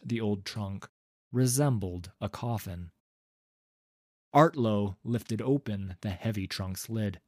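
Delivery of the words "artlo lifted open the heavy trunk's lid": plain reading voice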